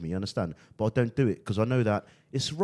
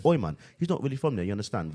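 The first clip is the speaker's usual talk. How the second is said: put-on British accent; 2 semitones higher than usual. London friends vouching for him to others, British accent. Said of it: "talking to people every day in the accent".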